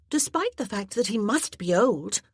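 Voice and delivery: put-on high, loud breathless pleading of an eager girl; a girl begging to go to the party; excited young girl.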